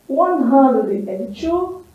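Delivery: "One hundred and two" said slowly and clearly; slow model words. Shown as a demonstration. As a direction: lay out each word of "One hundred and two". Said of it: "teacher models English numbers". ("One hundred and two" bem devagar)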